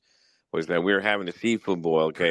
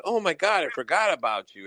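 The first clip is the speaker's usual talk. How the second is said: mock worker voice; 7 semitones higher than usual. Mocking the drive-thru worker.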